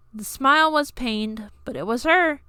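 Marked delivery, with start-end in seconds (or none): none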